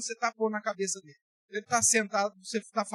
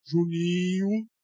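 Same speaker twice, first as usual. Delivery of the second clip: booming voice; 2 semitones lower, 6 dB louder, much slower than usual. Shown as a demonstration. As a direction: drop into a big commanding voice on Juninho. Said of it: "Mudou o timbre de voz". (vozeirão lento e autoritário)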